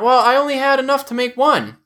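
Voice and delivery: high-pitched defensive wife; high mock-wife voice; imitated wife. Voicing wife in retold quarrel.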